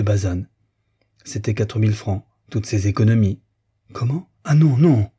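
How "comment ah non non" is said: rising from a surprised question to a loud, high no; shocked refusal. Acted. Friend refusing a gift of savings, loud shocked protest. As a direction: push the money back, louder on each non.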